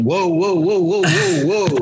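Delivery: a lightly voiced shocked tutor backing away; alarmed tutor. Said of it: "one of our tutors was just like".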